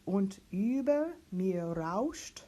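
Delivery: slow, carefully spoken German text; teacher reads the whole page back; slow German diction reading. Shown as a demonstration. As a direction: read each German word slowly and clearly. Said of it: "Practicing this whole page".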